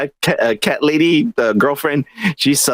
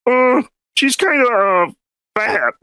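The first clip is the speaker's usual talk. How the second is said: mock hesitant voice; 10 semitones higher, slower than usual. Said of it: "they're like".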